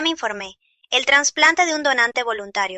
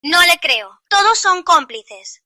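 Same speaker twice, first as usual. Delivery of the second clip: higher-pitched accusation, slowing down; making a scene; 4 semitones higher, slower than usual. Acted. Mother refuses to believe hospital staff, making an angry scene. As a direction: accuse them all publicly. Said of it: "hacer un escándalo así".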